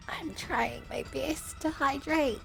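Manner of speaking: tired voice. Real, not acted. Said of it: "My voice is dying".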